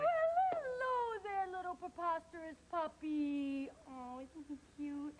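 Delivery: gushing sweet talk. Acted. Gina greets Oscar's dog, cooing sweetly. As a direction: gush over an adorable puppy. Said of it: "She always talks so nice to Preposterous".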